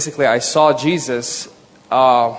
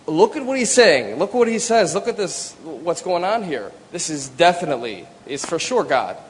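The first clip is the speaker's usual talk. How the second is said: high, eager pleading that settles at the end; retold excitement; 3 semitones higher than usual. Husband urging his wife to read Jesus' words, excited. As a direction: urge her to look, bursting with it. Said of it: "I'm shaking out of, like ... excitement".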